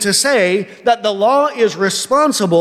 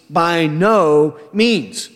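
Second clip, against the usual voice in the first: "By no means" drawn out slowly, each word weighted; slow it right down and lean on "By no means" with disgust; emphatic denial; 3 semitones lower, much slower than usual. Shown as a demonstration. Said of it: "he's making an emphatic statement".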